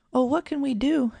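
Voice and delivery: high, loud wail; a frantic cry for help. A narrator's reading. Girl wails as her dog struggles in the pond, high and loud. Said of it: "she wailed".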